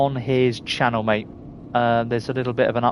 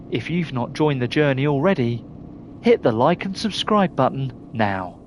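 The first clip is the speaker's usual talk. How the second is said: hammed-up voiceover intro for the channel. Shown as a demonstration. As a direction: sell the channel like a radio promo. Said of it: "Should we do one quickly?".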